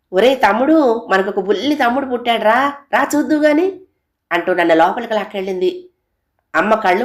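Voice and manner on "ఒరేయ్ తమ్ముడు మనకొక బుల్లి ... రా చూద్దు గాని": high, eager, breathless news; big sister thrilled about the new baby; excited call. Acted. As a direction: burst in calling your little brother.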